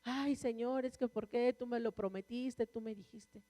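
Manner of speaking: retold plaintive plea, fading at the end; mock tearful lament. Woman reproaching God over His promise, mock tearful lament. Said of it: "yo sentada así llorando, decía".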